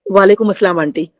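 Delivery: gently respectful greeting to an aunt. Retold or imitated. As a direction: say it with deep courtesy, head bowed. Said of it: "ऐसे करके बोले बड़े अदब से".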